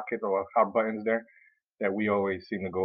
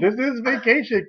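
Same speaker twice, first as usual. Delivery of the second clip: much higher, louder, drawn-out victory cry; mock triumphant shout; 13 semitones higher, 6 dB louder than usual. After kicking the crying person out, a slow triumphant shout. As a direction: savor it like the room is finally yours.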